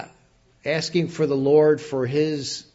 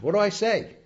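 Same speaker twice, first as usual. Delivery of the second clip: lightly acted plea, higher pitch; requesting guidance; 6 semitones higher than usual. Joshua asking Adonai for guidance, lightly acted plea. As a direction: put a raised, questioning appeal into it. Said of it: "to answer his request for direction".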